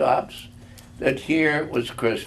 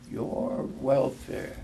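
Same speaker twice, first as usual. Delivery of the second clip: whispered ghost; 6 dB quieter, slower than usual. A narrator's reading.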